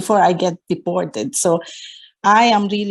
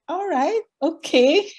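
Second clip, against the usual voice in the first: near tears; 10 semitones higher than usual. Retold or imitated. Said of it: "I was almost crying".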